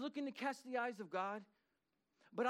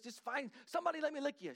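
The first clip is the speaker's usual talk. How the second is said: excited dog voice; 5 semitones higher than usual. Retold or imitated. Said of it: "She's so excited".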